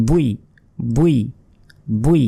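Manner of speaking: বুই said short and quick; quickly. Shown as a demonstration. Teacher asks students to say it fast. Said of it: "দ্রুত বলবেন".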